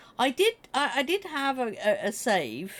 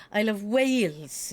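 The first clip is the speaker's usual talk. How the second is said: WALES in a lilting Welsh accent. Shown as a demonstration. Streamer showing how the word comes out, Welsh accent. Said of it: "comes out in a Welsh accent".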